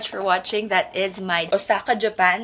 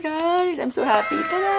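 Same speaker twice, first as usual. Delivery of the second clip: excited reveal; 9 semitones higher than usual. Real, not acted.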